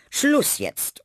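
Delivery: high, loud, sharp stop; sharp interruption. Acted. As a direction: cut the children off firmly. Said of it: "unterbrach Frau Lerche".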